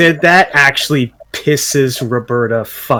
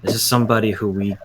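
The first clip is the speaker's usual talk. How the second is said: earnest in-character plea; 5 semitones lower, 6 dB quieter than usual. Acted. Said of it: "I'm gonna look at him and say".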